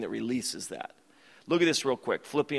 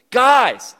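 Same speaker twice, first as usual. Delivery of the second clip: much higher, louder, bubbly over-positive voice; cheery friend; 9 semitones higher, 11 dB louder than usual. Retold or imitated. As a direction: bounce it like the annoyingly positive friend. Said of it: "Zach goes".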